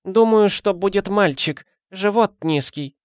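put-on high, creaky-free old granny voice; old woman voice. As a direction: play the nosy old neighbour. Old woman Teofania speaks.

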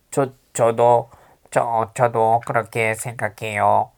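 slow pinched-nose nasal voice. Shown as a demonstration. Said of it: "일부러 코맹맹이 소리 하는 거야".

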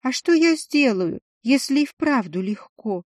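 nervous, self-conscious rush; flustered timid woman. Acted. Lishin embarrassed explaining.

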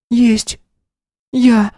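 put-on very high small frightened girl; little girl voice. A narrator's reading. Narrator gives the lost girl her small high voice. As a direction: voice a tiny scared child.

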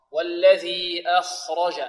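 slow "أخرج" with light hamza, heavy kha and ra, light jim. Shown as a demonstration. Teacher models the verse, "أخرج" with light hamza, heavy kha. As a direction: recite "أخرج" as akh-raw-ja, measured. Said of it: "الراء مفخمة والجيم مرققة".

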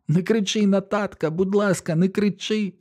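put-on very high, squealing child's plea; shrieking little boy. A narrator's reading. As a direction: shriek it like a scared little brother. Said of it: "Слова виходять у нього невиразними, мов крізь вату". (малий Біллі верещить до брата)

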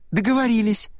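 gladly seal the deal; joyful exclamation. A narrator's reading. Girl happily agreeing to the older boy's promise, joyful. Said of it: "радостно воскликнула Аннабет".

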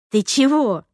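mildly startled question; a touch of baffled surprise; taken aback. A narrator's reading. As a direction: caught off guard, understated. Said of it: "опешила я".

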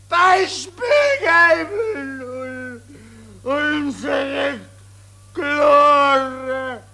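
slow, sobbing shout; tearful pathos. Acted. General wails over the army's lost glory.

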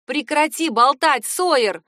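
loud, slow shouted order; shouting. A narrator's reading. Dylan yelling at Sawyer to stop talking, loud. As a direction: yell it at the back of the seat. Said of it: "прокричала я".

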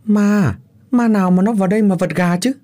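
angry shout. A narrator's reading. Husband scolding his frightened wife, angry shout. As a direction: snap at her ghost talk, fast. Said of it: "cáu tiết quát lớn".

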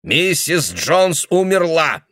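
put-on the old man insisting the woman is dead; slow furious insistence. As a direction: spell it out to crush her.

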